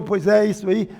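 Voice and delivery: imitating empty chit-chat; mocking empty chatter. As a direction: toss it off as hollow agreement. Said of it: "Isso é papo".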